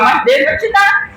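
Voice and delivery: high, slow, crying shout; insisting prophecy. Retold or imitated. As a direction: cry it out with fervor. Irmã insiste, profecia. (grito choroso e agudo)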